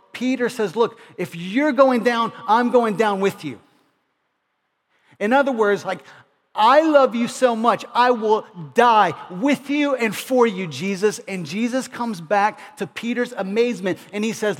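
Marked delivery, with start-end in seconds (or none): 0.7-3.6 louder, fervent vow to his master; bold loyal vow. Retold or imitated. Devoted Peter's bold vow. 6.6-11.2 much louder, passionate declaration of love; fervent pledge. Retold or imitated. Peter pledging his life.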